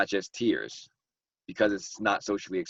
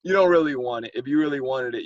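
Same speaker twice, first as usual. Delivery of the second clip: bluffing tough guy; 3 semitones higher, 5 dB louder than usual. Retold or imitated. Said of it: "the selling wolf tickets".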